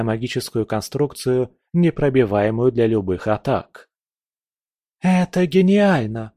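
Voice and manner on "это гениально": higher, delighted exclamation; exclaiming. A narrator's reading. Nastya marvels at the tower plan, exclaiming. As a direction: burst out in admiration. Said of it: "воскликнула Настя".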